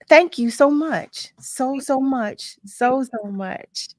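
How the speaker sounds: slow, heartfelt thanks; real, deeply touched gratitude; emotional thanks. Real, not acted. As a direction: let each "so much" linger, moved. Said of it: "I'm so emotional right now".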